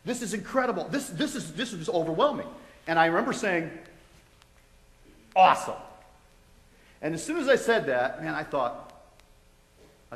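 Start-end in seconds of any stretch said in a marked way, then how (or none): 0.0-2.5 retold burst of excitement, higher at first; fired up. Patient reacts to news he is healed, fired up. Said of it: "I was so fired up". 5.3-5.8 loud, punched-out cheer; excited. Retold or imitated. Patient hears he has been healed, loud and excited. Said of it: "can't imagine how excited I was".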